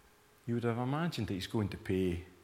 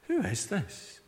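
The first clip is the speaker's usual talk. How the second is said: P=A; higher emphatic question; 10 semitones higher than usual. Real, not acted. Rhetorical question repeated.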